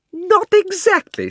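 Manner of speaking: put-on high, loud, outraged girl; indignant shout. Polly shouts at Diggory's hedge, high and outraged. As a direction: repeat his words in disbelief. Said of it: "shouted Polly".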